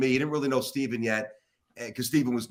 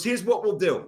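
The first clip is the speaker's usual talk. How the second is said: slightly raised, mock-irritated proposal; retold testy offer, pitched up; pissed-off coach; 4 semitones higher than usual. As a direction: imitate an angry coach laying down a challenge. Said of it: "Now he's pissed".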